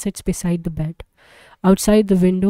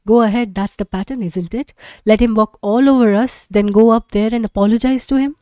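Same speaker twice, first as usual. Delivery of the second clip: bitter anger; 3 semitones higher, 6 dB louder than usual. Acted. Beth's bitter quarrel with husband.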